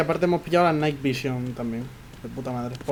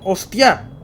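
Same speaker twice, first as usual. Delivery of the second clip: yelling at the screen, louder; panicked yell, higher and louder; frustrated shout; 5 semitones higher, 6 dB louder, slower than usual. Real, not acted. Panicking as character drowns.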